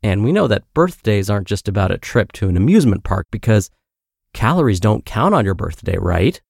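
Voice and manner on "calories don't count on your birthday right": mild tongue-in-cheek sarcasm; sarcastic. Real, not acted. Host joking about birthday treats at Disneyland, mildly sarcastic. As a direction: say it as if it were true, lightly sarcastic. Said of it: "Note the sarcasm in my voice".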